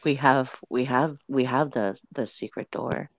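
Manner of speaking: low, hushed whisper; spooky whisper. Pretend. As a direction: lure him in softly. Luring Anti-Hero in.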